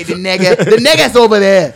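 loud imitation, "nigga" with an "eh" vowel; Boston pronunciation. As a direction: say "nigga" as "negga", mimicking Bostonians. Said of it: "That's how they say".

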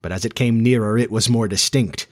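measured storybook narrator; story narration. A narrator's reading. Narrator building suspense for listeners, measured storytelling. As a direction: narrator tells of the nearing sound in measured storytelling.

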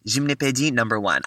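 Gymnopédie said the French way; French pronunciation. Real, not acted. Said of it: "I'm saying it in a French accent".

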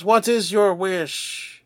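slow, booming dragon ritual; grand wish-granting dragon. Acted. Dragon asks second wisher.

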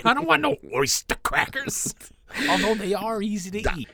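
high, loud squawky parrot rant. Pretend. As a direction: demand crackers like an angry bird. Costumed kid demanding crackers.

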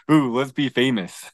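laughing through a mock show-off line; mock fame-seeking. Denying he wanted fame, laughing mock show-off. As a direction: poke fun at wanting to be famous. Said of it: "my intentions were not to be like".

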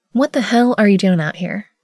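loud scolding aunt; disappointed auntie voice. A narrator's reading. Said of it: "best disappointed auntie voice".

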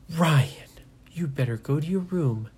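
hushed stern parent; stern whisper. Acted. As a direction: order him off in a hiss. Parent sending child away.

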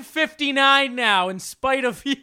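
loud, high, gloating threat; spiteful teasing shout. Acted. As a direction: yell it out to spite him.

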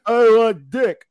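loud, slow, dopey goblin; stupid goblin voice. Acted. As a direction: drag it out like a dim-witted monster. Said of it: "They're stupid. They're like".

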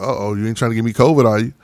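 a quick, lightly teasing mock worry; sarcastic joke. Joking with the singer about her cough, lightly sarcastic. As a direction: tease her that she might be sick, a bit fast. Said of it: "the sarcasm in my voice".

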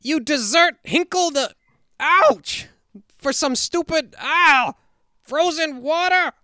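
high, loud flustered magician yelp; trampled clown magician squawking; Professor Hinkle. Acted. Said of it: "listen to some Hinkle".

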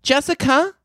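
high-pitched call without extra volume; high mock yell; mimicked boss scream. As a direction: imitate the boss hollering in a high voice. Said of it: "you just hear her scream".

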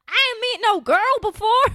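put-on high, loud childish hick twang; baby hick voice. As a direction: play a backwoods little kid. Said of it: "Baby Hick voice is so funny to me".

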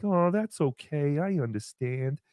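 mock brave kid. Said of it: "he's like".

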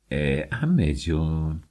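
gently object, slowly; tender protest. Acted. (دختر مهربان، آرام و کشیده)

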